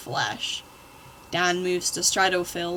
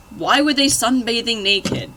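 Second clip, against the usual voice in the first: incredulous; 4 semitones higher, 7 dB louder than usual. Real, not acted. Incredulous at fanfic.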